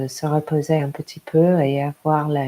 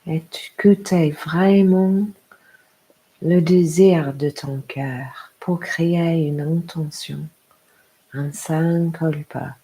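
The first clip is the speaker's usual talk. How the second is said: guided meditation. Acted. Yoga teacher inviting a parent to hear their heart, guided meditation.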